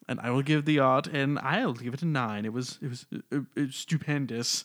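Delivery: put-on British accent. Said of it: "should I do a British accent?".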